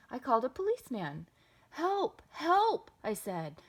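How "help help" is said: high, urgent cry for help; urgent plea. A narrator's reading. Boy phoning a policeman for help, urgent. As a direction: call out for help in a panic.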